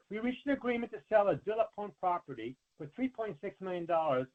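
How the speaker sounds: ordinary delivery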